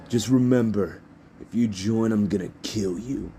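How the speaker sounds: lightly acted rival's warning; threat. Rival threatens Izuku in story.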